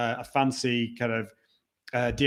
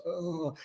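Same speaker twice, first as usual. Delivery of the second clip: sick groan; 3 semitones higher, 10 dB quieter than usual. Retold or imitated. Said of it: "I was like this".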